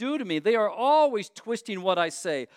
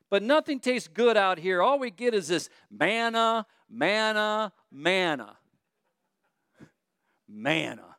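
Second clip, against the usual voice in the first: whining. Retold or imitated.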